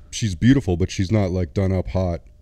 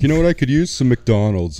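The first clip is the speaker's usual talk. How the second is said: mock soldier; 5 semitones higher, 4 dB louder than usual. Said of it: "They're like".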